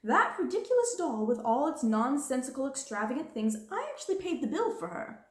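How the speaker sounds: indignant outcry. Acted. Indignant outcry. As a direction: headmistress railing about the doll's bill, indignant. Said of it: "cried Miss Minchin".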